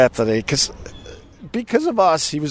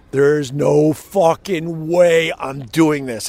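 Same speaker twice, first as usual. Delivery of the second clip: flat refusal; 4 semitones higher, much slower than usual. Retold or imitated. Retold defiant refusal to boss.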